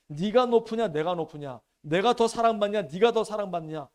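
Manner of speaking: mild mock quarrel over who is greater; mock squabble. Disciples squabbling over who is greater, mild mock quarrel.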